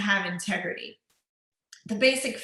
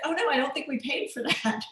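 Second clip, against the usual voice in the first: mock panic; 4 semitones higher than usual. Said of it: "I just panic and".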